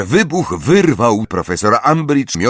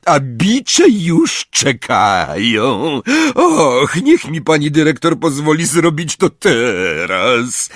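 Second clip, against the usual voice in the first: higher, drawn-out gleeful caretaker voice; tearfully happy; 5 semitones higher, slower than usual. A narrator's reading. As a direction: plead eagerly, close to tears of joy. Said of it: "był bliski płaczu ze szczęścia". (przeciągle, niemal płacząc ze szczęścia)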